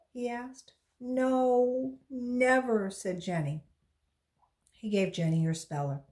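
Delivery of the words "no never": put-on higher, louder insistent girl; insist, a little desperate; upset girl. A narrator's reading. Girl answers firmly.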